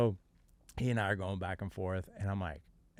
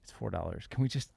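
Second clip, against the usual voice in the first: exasperated plea; 6 semitones higher than usual. Retold or imitated. Pleading with the DMV clerk.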